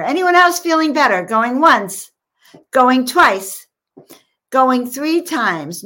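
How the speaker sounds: playful auctioneer call, high and loud. Pretend. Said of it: "I feel like a, an auctioneer".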